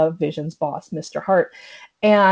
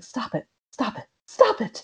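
pleading, near tears; 3 semitones higher, 6 dB quieter than usual. Retold or imitated. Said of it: "almost crying. And she's looking directly at Wanda and pleading".

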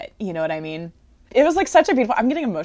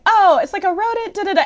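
much higher and louder, humming off; a spacey boy musing on a rodent; hammed-up dreamy speller; dreamy kid; 13 semitones higher, 7 dB louder, faster than usual. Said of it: "is like".

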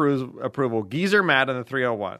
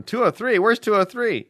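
puzzled, higher-pitched questioning; acted befuddlement; 8 semitones higher, 3 dB louder than usual. Listeners staring around at each other, acted bafflement. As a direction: ask it like a baffled crowd member. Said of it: "In befuddlement".

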